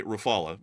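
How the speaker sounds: Rafale as roo-FAH-luh with American R; American-accented French pronunciation. Shown as a demonstration. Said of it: "in my American accent".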